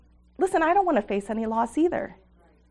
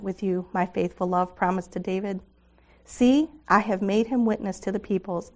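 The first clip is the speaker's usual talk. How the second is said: scripture reading. Acted. Speaker reading Isaiah 55 to the women, calm and measured. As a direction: read the invitation gently and steadily.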